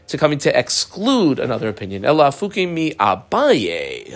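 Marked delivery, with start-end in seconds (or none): 2.0-4.2 Abaye drawn out slowly; slow reading, leaning on "Abaye"; stress on Abaye. Shown as a demonstration. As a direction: underline "Abaye" with a long, swooping stress. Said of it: "I underline Abaye".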